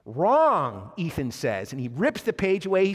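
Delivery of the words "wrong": drawn-out verdict in a retold scene; emphatic rejection. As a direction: pronounce the captor's verdict with force. Ethan rejects Theo's answer.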